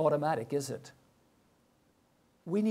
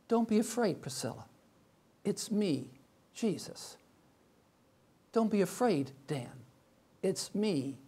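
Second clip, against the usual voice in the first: gentle reassurance. Acted. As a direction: speak as Jesus calming each one. Jesus voiced to congregation.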